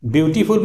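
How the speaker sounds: "ब्यूटीफुल" with a full "tee" in the middle; wrong three-syllable beautiful. Shown as a demonstration. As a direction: say "ब्यूटीफुल" as byoo-tee-fool. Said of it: "मत बोलिएगा आप लोग". ("ब्यूटीफुल" तीन syllable में, ब्यू-टी-फुल)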